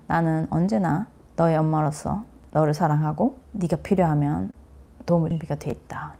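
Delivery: gentle and quiet, like a mother promising to be there; soft, tender mother. Shown as a demonstration. Mother to her struggling child, soft and tender. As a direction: hush it softly to a struggling child. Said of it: "애들은 듣고 싶은 말이죠".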